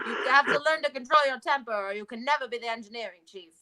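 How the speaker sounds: lightly voiced scolding captain; quick reprise of a mild Iowa-British accent; Captain Janeway. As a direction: rattle off the captain's warning with a hint of accent. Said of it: "I went up to them and I was like".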